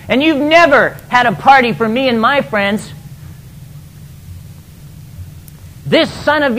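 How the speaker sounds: mildly heated, pleading but sore; resentful complaint. Retold or imitated. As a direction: air the grievance to his father. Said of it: "the elder son was angry".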